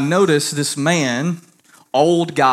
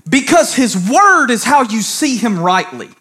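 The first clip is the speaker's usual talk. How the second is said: emphatic, raised preaching voice; 6 semitones higher, 4 dB louder than usual. Real, not acted. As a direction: preach it firmly in measured phrases.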